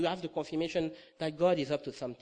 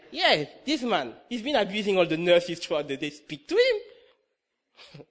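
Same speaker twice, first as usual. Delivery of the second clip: loud, higher-pitched order, drawn out at the end; retold insistent command; 4 semitones higher, 8 dB louder than usual. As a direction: playfully imitate an insistent boss. Retold command from God, comically insistent.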